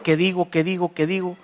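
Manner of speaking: quiet, anxious murmur to himself; inner panic murmur. Retold or imitated. Preacher voicing his panicked inner thoughts, quiet murmur. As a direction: mutter it under your breath in a panic. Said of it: "Aquí adentro".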